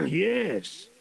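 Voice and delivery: put-on lightly accented Russian general, gruff and greedy. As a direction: play a scheming Russian general. Plays Russian general in story.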